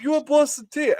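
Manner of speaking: high mimicked teasing ask; friend's teasing question. Friend offering Boston tea, high teasing mimic. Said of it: "He's like".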